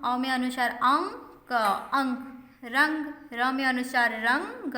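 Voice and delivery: अंक and रंग said slowly to show the nasal sound; teacher slowly models anusvar words for children; slow demo. Shown as a demonstration. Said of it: "इसे अनुसार भी कहते हैं".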